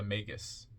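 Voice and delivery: magus said MAY-gus, long A. Shown as a demonstration. Reader gives the first way of saying the title, magus as MAY-gus. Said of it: "or magus".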